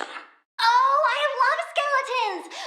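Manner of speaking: high delighted gush; light up at the word skeletons. Acted. Plant girl thrilled about skeletons, high gush.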